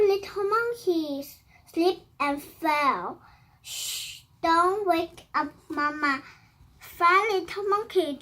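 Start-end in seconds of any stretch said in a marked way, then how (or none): 3.6-4.2 shushing. Acted. Hushing so Mama sleeps.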